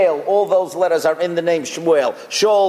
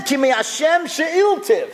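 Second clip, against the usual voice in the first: "Ki mi Hashem she'iltiv" lifted higher and drawn out slowly; slow, raised devout quoting of "Ki mi Hashem she'iltiv"; Hannah's voice; 7 semitones higher than usual. Acted. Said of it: "She said".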